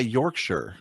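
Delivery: Yorkshire as York-sher; American Yorkshire. Shown as a demonstration. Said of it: "the way I would say it".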